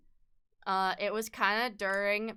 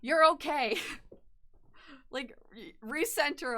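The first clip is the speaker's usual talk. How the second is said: mock calming; 4 semitones higher, 4 dB louder than usual. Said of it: "I'm like".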